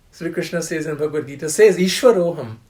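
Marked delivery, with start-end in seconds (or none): 1.8-2.6 proud, loud bragging; mock arrogant braggart; arrogant boast. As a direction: crow like a man who thinks he is God. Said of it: "The arrogant person".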